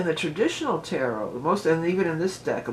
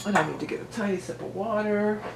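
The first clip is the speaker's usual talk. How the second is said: talking around a cough drop; cough drop in mouth; 6 semitones higher, 3 dB louder than usual. Real, not acted. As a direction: lozenge in the mouth. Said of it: "I had a cough drop in my mouth".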